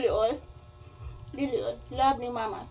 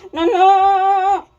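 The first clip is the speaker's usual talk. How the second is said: playful squeal; 8 semitones higher, 11 dB louder than usual. Real, not acted. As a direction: squeal the word out. Loud playful exclaim to baby. (mapahiyumon nga singgit)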